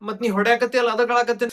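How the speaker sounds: high, loud tearful protest; acted crying. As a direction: wail back at mother for hitting you. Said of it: "ಎದಕ್ ಅಳಾಕತ್ತಿ". (ಅಳುತ್ತಾ ದೂರುವ ನಟನೆ)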